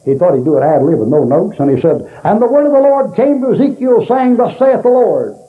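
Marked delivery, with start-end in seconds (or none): 2.2-5.4 high-pitched preaching, every word emphasized; Jack Hyles. Retold or imitated. First-time preacher ad-libbing from no notes, mock over-emphatic. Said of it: "he emphasized every word in that thing".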